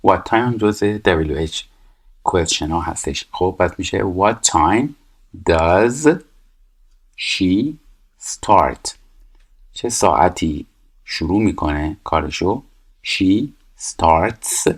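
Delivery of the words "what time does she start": 1 word by word. Shown as a demonstration. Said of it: "building the answer word by word".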